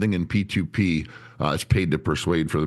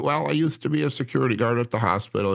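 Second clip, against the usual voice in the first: higher, easygoing imitation of an employee; Ricky chatting; 6 semitones higher, faster than usual. Employee telling the trainer his old job, casual put-on voice. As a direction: imitate an employee making small talk, pitched up. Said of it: "I was like, "So, Ricky, where are you from?".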